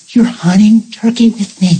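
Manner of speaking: hushed, amazed whisper to God; awed whisper. Retold or imitated. Awed aside to the Lord.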